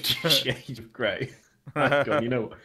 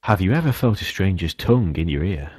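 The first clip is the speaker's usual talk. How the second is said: lightly done Quagmire, louder; a hint of sleazy Quagmire; 7 dB louder than usual. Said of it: "Quagmire style for you there".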